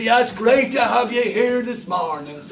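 put-on slow, hinted Dublin accent. Pastor welcoming a Dublin visitor in a light Dublin accent. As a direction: greet him with a light Dublin lilt. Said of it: "somebody's in from Dublin".

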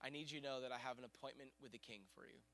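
very soft, hushed and measured; voice of God. Retold or imitated. The Lord speaking to preacher at night, hushed reassurance. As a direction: speak it gently with pauses between phrases. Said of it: "the Lord just quickly spoke to me".

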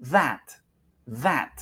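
"That" with buzzed th and smiling, spread a. Shown as a demonstration. Teacher drills the A with learners, careful pronunciation model. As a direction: smile through the vowel of "That", short and open. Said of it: "es como una A sonriendo".

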